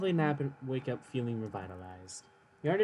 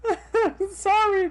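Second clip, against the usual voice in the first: drawn-out sorry; 10 dB louder, much slower than usual. Pretend. Apologising in a drawn-out voice.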